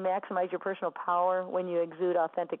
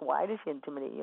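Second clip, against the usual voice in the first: put-on almost-laughing tone, lower pitch; 4 semitones lower, 3 dB quieter than usual. Retelling a woman's amused reply, retelling an almost-laughing question. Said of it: "She was almost laughing".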